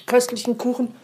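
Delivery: talking while eating cake; words round a bite of cake; mouth full. Real, not acted. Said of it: "ich esse gerade von meinem köstlichen Kuchen".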